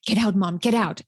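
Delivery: imitating a daughter shooing mom away; rude brush-off. Daughter on FaceTime shooing mom from her room, mock rude. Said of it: "it can come across as rude".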